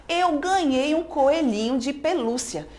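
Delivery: slow, stretched intonation on "coelhinho de pelúcia"; drawn-out intonation. Acted. Teacher reading the third panel's line, slowly drawn out. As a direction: stretch out each word slowly. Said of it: "prolongamento dessas entonações".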